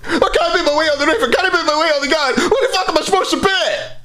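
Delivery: high, panicked Scottish yelling, half laughing; a Scottish man stuck on a roof, wailing in disbelief; frantic Scottish rant. Retold or imitated. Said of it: "and he's like".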